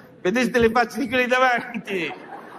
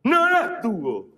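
slow repeat; 3 semitones higher, much slower than usual. Shown as a demonstration. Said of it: "Cosa ho detto?".

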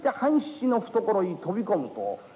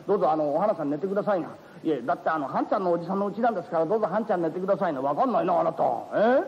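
lightly voiced bashful young man and woman; lightly voiced young lovers arguing politely; awkward young couple; 2 semitones lower than usual. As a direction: squabble shyly over who sleeps.

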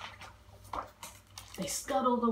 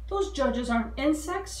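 higher, louder alarmed cry; yelled; 7 semitones higher, 4 dB louder than usual. Acted. Dilly warning the bugs about the judges, yelling. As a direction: sound the alarm to the other bugs. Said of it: "She yelled".

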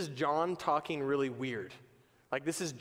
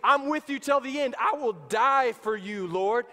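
fervent vow; 5 semitones higher, 6 dB louder than usual. Acted. Peter vowing loyalty, preacher acting.

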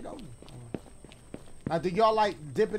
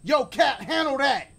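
hyped call to the cat; 7 semitones higher, 9 dB louder, slower than usual. Retold or imitated. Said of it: "I'm like".

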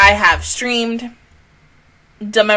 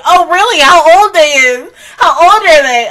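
mock parent reply; 5 semitones higher, 6 dB louder than usual. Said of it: "I'm like".

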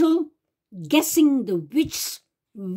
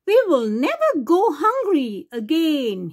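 joyful cry; 4 semitones higher than usual. Acted. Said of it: "he cried".

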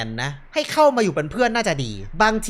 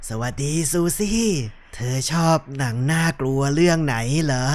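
low, soft horror-film phone voice; creepy prank caller; 5 semitones lower, 3 dB quieter than usual. Acted. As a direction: lower the voice to spook her. (เสียงต่ำเบาแบบคนโทรมาหลอน)

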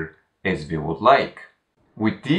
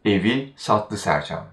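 evi prominent, then a fall; stress on evi. Shown as a demonstration. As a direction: put the weight on evi. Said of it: "the stress falls on evi once again".

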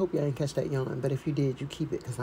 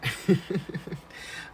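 light chuckle to oneself; a small amused laugh; short laugh. Real, not acted. Vlogger amused by her own introduction, light chuckle.

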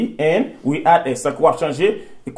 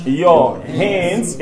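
slow dictation; much slower than usual. Shown as a demonstration. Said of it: "Deuxième personne".

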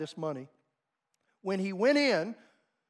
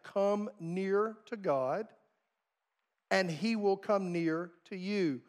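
slower, gentle repeat of the verse; slow, soft emphasis; slower than usual. Shown as a demonstration. Preacher repeating James's verse to the congregation, slow and soft. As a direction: let each word land softly. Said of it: "What does James remind us?".

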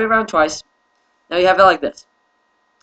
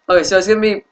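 yawning; 2 semitones higher, much faster than usual. Real, not acted. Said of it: "oh, excuse me, I'm yawning".

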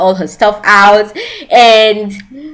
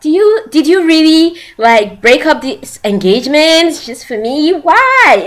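touched disbelief; 5 semitones higher than usual. Retold or imitated. Acting the amazed son.

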